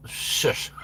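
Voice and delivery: breathy playful shush; mock shush. Real, not acted. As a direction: hush him teasingly. Hushing a viewer.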